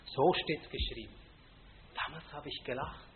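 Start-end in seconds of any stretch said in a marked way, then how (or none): 0.0-1.1 So steht's geschrieben tossed off lightly, mocking; casual, scoffing So steht's geschrieben; dismissive mock quote. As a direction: brush aside So steht's geschrieben as a sectarian phrase. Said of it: "das sagen alle Sektierer".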